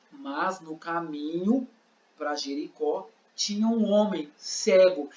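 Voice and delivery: slow, measured narration of the scene; narração demonstrativa. Shown as a demonstration. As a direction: set the scene slowly, phrase by phrase. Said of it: "eu vou fazer". (narração bem pausada)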